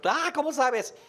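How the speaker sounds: baffled dad asking in disbelief; amazed father. Retold or imitated. The father asks the mother how she knows the baby is hot, astonished.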